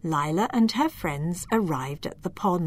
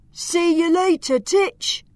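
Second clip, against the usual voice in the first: high, mocking farewell fading to a whisper; teasing giant; 10 semitones higher, 4 dB louder than usual. Giant taunting tiny Lila, high then whispered. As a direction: tease the little elf as you leave. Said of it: "walked away chuckling".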